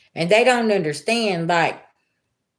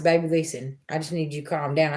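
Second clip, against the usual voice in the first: softer, soothing plea; calming down; 3 semitones lower, 5 dB quieter than usual. Retold or imitated. Calming the upset young mother, soft soothing plea. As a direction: ease her down gently. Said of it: "I had to calm her down".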